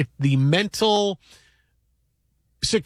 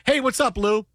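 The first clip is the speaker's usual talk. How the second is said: higher, cheeky mock hello; retold cheeky greeting; 6 semitones higher than usual. Best friend greets the Hulk lookalike, cheeky greeting. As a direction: imitate a buddy's teasing greeting, pitched up.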